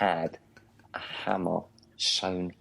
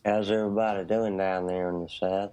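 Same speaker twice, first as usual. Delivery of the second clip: put-on Southern US accent; faster than usual. Greeting everyone down South in a Southern US accent. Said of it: "That's better. Right, you got it".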